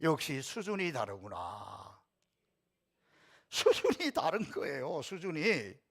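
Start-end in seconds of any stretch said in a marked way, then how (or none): 0.0-2.0 slow, deliberate call for the congregation to echo; repeat after me. Shown as a demonstration. Pastor leading the congregation to repeat, slow. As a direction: say it slowly so all can follow. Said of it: "저를 한번 따라하겠습니다".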